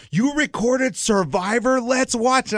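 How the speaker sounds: mock-excited, high-pitched spouse; imitating eager wife. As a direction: gush like a wife eager to watch. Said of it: "She's like".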